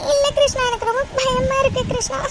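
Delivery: tearful, fearful whimpering; crying. Acted. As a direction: confess the fear between sobs. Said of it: "please டி, அழுகாதடி". (அழுதபடி பயத்துடன்)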